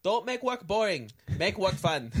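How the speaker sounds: a hint of a fresh-off-the-boat Asian accent; lightly put-on Asian accent slogan; fob accent. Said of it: "That was my inner fob coming out".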